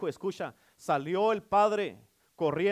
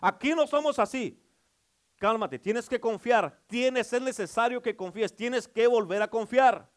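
hey hey, then a slower cálmate and a calming plea; father calming son; 7 semitones higher, 7 dB louder than usual. Acted. Father calms his angry returning son, slowing and soothing. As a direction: soothe a frightened son, easing down. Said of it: "Y dice el padre".

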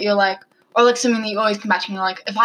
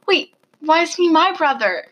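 higher, puzzled and indignant; confused surprise; 8 semitones higher, 4 dB louder than usual. Retold or imitated. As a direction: ask it in baffled disbelief. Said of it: "I was like".

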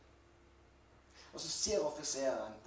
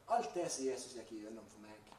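emphatic statement; 4 dB louder than usual. Real, not acted. Preacher reflects on what Jesus went through for him, emphatic delivery. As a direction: press firmly into "alt det" at the start. Rhetorical repeat, me against you.

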